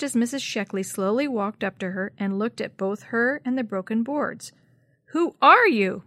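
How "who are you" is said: put-on a loud, higher old lady's demand; almost shouted. Missus Sheckley confronting Jenny on her porch, near shout. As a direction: nearly shout at the intruder. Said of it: "Missus Sheckley almost shouted".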